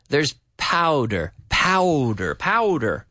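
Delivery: powder repeated slowly, aspirated p, pow like cow; slow repeated powder, first syllable clear; drilling powder. Shown as a demonstration. Teacher drills powder slowly for Tino, careful pronunciation. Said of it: "Not powder, but pow".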